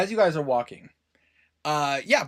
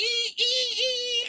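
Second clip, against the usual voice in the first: high electronic modem squeal; dial-up screech. Retold or imitated. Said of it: "start to hear ee".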